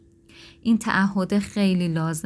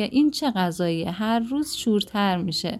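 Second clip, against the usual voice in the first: higher, exasperated scolding of spouse; nagging criticism; 5 semitones higher than usual. Shown as a demonstration. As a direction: scold a spouse over salty food, raised pitch. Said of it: "ولی این که بگی که". (غر زدن و سرزنش با صدای بالاتر)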